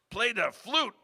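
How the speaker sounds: mock bandleader shout. The speaker insists, louder.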